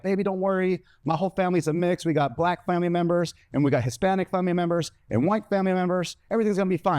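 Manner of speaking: put-on girlfriend reassuring. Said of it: "She was like".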